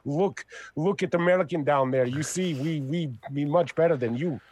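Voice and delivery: put-on a weak, half-hearted Russian accent; bad Russian accent. Mocking the Americans below in a bad Russian accent. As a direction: fake Russian accent that slips. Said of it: "that was my bad Russian accent".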